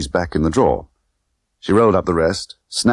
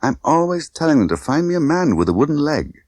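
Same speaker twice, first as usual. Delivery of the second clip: frowning Tiffany; 9 semitones higher than usual. Acted. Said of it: "She frowned".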